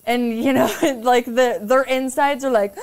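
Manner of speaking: ordinary talk, nothing marked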